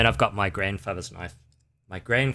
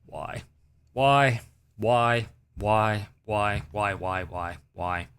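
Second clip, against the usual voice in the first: fading whys; slower than usual. Real, not acted.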